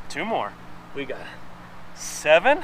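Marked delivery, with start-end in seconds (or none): 2.0-2.6 strained crack mid-count. Real, not acted. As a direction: pitch breaks on a rising count. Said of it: "Voice cracked".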